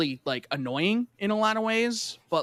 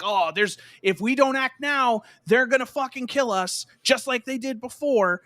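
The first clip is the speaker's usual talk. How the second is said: hammed-up hostile politician, pitched up; mocking villain voice; 6 semitones higher than usual. Voicing the hated character.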